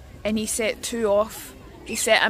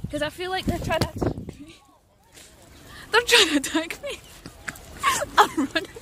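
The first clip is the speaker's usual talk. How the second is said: mock panic; 5 semitones higher than usual. Real, not acted. Fleeing the birds.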